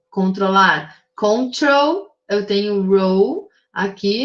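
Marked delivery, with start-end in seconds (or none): 1.1-2.1 "Control" with the last syllable stressed; "Control", higher pitched, weight on its final syllable. Shown as a demonstration. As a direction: say "Control" leaning on the second syllable, trol. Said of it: "a última sílaba tônica mais forte".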